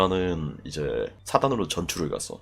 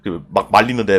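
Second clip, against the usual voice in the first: ordinary talk, nothing marked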